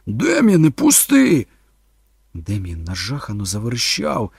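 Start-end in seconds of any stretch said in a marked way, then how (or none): 0.0-1.5 loud, high-pitched shout; bellowed order. A narrator's reading. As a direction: yell at the boy to let go. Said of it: "загорлав Торн". (горлаючи, наказово)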